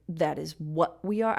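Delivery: "what we are" weighted, rising end on "are"; alternative natural stress. Shown as a demonstration. Teacher trying another reading, stress moved to "what we are". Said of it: "I'd probably just say".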